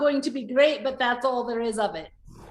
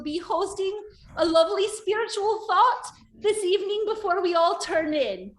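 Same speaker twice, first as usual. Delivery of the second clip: cheery priestess address; 8 semitones higher than usual. Acted. Priestess on a barrel greeting the sailors, bright and high. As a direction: sing it out to the whole deck. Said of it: "and say".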